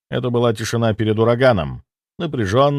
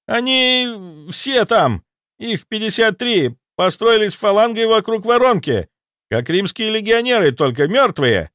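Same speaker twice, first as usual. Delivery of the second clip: panicked ghost soldier; 11 semitones higher than usual. Acted. Ghost soldier reporting the dead army, high panicked voice. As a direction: babble the news in alarm.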